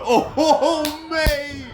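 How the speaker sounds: high, loud laughing oh mate. Real, not acted. Commentator thrilled by forearm strikes, high laughing oh mate. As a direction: laugh out your amazement.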